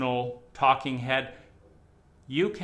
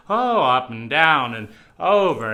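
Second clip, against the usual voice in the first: wide pitch swing; 9 dB louder than usual. Shown as a demonstration. Showing the audience the full range of a voice, swooping loud. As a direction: sing the pitch up and down to show range. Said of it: "talk like this and control your voice".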